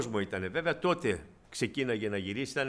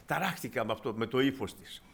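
ordinary talk, nothing marked

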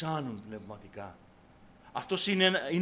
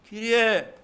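slightly raised, higher call; crying out to God; 10 semitones higher, 10 dB louder than usual. Acted. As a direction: call out to the Lord in prayer. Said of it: "κράζεις".

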